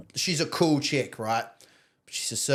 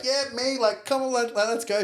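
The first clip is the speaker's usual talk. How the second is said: higher, bright-eyed eagerness, mock upbeat; cheerfully eager patient, pitched up; happy and cheery; 8 semitones higher than usual. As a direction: play it keen like nothing's wrong. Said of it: "I'm just happy, cheery".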